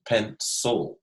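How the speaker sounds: "Pencil" said slowly and clearly for the class; teacher models "Pencil" for kids; modeling the word. Shown as a demonstration. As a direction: model "Pencil" crisply, pen-SIL. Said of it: "how do we say that?".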